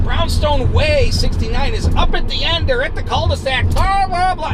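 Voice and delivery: loud, high ranting that climbs into blahs; freaking out. Retold or imitated. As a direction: mimic a man losing it. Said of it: "and he's freaking out".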